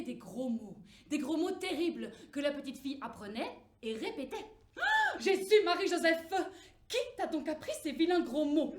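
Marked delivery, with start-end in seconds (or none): 4.8-8.7 lightly voiced shocked mother, higher and louder; scolding mother. Mother scolding her daughter, higher mock outrage. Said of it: "lui demandait sa mère".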